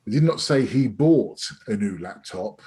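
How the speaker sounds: bought pushed with a rise; stress on bought. Shown as a demonstration. Trainer demonstrates emphasis, stress on bought. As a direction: lean on bought. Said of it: "They could have leased".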